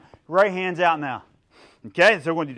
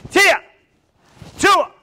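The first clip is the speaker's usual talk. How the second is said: high, sudden, punchy call; shouted drill command; 12 semitones higher, 8 dB louder than usual. Shown as a demonstration. Instructor cueing block and punch, shouted. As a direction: snap the command out loudly.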